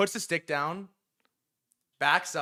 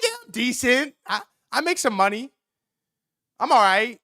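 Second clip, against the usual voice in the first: high, hedging mock modesty; squeaky-high retold self-defense; defensive bragging; 9 semitones higher, 4 dB louder than usual. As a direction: pitch up as if unconvinced. Defends how well he does.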